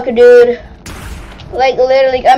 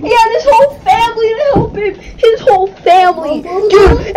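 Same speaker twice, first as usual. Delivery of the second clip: crying shout; 2 semitones higher than usual. Real, not acted. Kid upset, crying.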